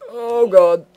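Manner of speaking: high, loud shriek of alarm; startled shriek. Real, not acted. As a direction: yelp as if something jumped you. Sudden danger in game.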